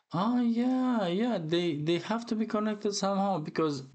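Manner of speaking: a sudden high "oh yeah" as it clicks; light up as you connect the dots; eager, rising discovery; excited realization. Real, not acted. Realizing the characters are linked.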